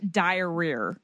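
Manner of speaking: "diarrhea" said with an R on the end, Rhode Island style; husband's Rhode Island accent. Retold or imitated. Wife imitating her husband's diarrhea, Rhode Island accent. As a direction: end "diarrhea" in an added R sound. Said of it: "he also says".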